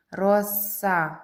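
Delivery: Роса with the С held long; Роса sounded out with a lingering hiss on С; stretched middle sound. Shown as a demonstration. Stretching word to find next sound.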